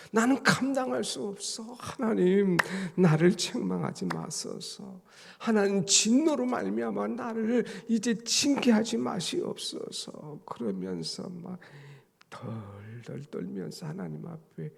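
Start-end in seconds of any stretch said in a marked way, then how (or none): 0.1-10.4 raised, pleading prayer voice; David's plea. Retold or imitated. Preacher voices David begging God for mercy, high and pleading. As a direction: beg God not to punish, voice lifted high. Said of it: "하나님께서 회초리를 드시면".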